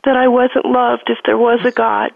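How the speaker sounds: tearfully, holding back real crying. Real, not acted. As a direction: speak through real tears. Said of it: "I still can't say it without crying".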